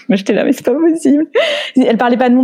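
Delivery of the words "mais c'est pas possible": retold disbelief. Own retold disbelief, high.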